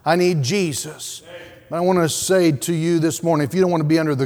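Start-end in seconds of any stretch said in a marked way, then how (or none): 0.0-1.2 voicing a repentant sinner. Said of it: "Those who recognize".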